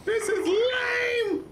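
very high, drawn-out squealed yell; frustrated shout. Real, not acted. Gamer fed up with the mission, frustrated shout. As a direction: yell it slowly, stretching the words in frustration.

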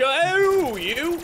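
sudden high, loud yelp; startled yell. Real, not acted. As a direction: jump in fright and yell. Startled by zombies.

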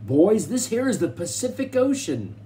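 high, loud call to the whole crew; rough miner hollering the good news; excited yell. A narrator's reading. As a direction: announce it to everybody on deck. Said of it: "yelled Mountain Jim".

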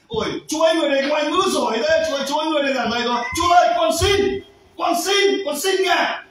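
high, pleading cry rising to shouts; begging son. Acted. Preacher voicing the son begging the master, high pleading. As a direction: plead with the master, voice climbing into calls.

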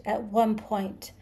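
slow, deliberate hiss. A narrator's reading. Creature repeats its grievance to Arthur, hissing. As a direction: draw it out as a hiss. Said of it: "he hissed".

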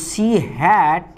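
each word spaced out for copying; slow dictation. Shown as a demonstration. Teacher dictating an example sentence to students, slow and deliberate. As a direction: read it out slowly for students to write.

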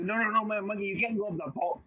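mock-scold the new monkey, a bit hurried. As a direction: other monkeys stopping the new one, lightly hammed-up alarm. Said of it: "They're like".

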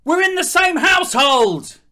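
exasperated outburst. Acted. Pleading with the flatmate next door, exasperated outburst. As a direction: throw up your hands at the flatmate.

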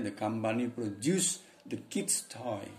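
put-on "the company produce the kids toy" read slowly and clearly; teacher reads "the company produce the kids toy" slowly to learners; pronunciation demo. Shown as a demonstration. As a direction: model the sentence slowly, word by word.

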